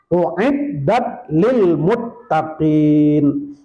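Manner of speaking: slow, drawn-out chanted Arabic; Quranic recitation. Acted. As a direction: intone the verse like a reciter. Quranic verse quoted in sermon.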